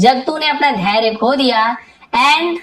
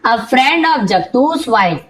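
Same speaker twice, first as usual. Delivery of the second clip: slow story reading; much slower than usual. Shown as a demonstration.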